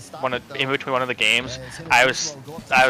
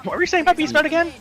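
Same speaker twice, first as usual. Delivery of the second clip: teasing; faster than usual. Real, not acted. Teasing a friend about Beast Mode.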